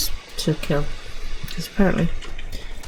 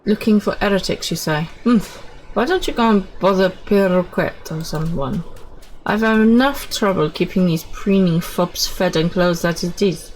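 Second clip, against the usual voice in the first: grumpy NPC. Acted. Voices grumpy camp NPC.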